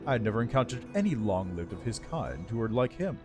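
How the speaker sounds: lightly voiced regal undead lich; haughty undead lord, measured and cool. Lich answers about the elf.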